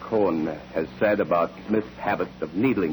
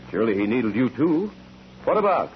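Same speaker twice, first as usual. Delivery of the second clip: pressing; 3 semitones higher than usual. Acted. Lawyer presses witness hard.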